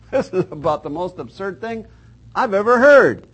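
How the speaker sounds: mock scoff rising high and loud at the end; scoffing mockery. Preacher mimicking Judah scoffing at the prophecy, loud sneer. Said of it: "laughs and scoffs".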